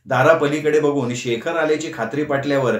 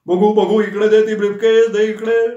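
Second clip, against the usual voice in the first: high, loud eager grabbing; hurry, hand it over now; eager demand; 7 semitones higher, 5 dB louder than usual. A narrator's reading. Nana eagerly demanding the briefcase from Shekhar.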